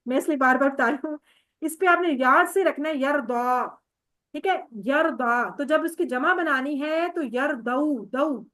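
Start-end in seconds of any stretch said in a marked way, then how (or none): 1.6-5.6 یردا slowed down and stressed at the end; stressed reminder. Shown as a demonstration. Teacher warning students about the quiz, stressing یردا. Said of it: "یہ بڑی important ہے". 5.6-8.1 یردو said slowly with zabar, not pesh; slow demo. Shown as a demonstration. Teacher correcting the plural form for students, slow. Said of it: "پیش نہیں لگانی، زبر لگانی ہے".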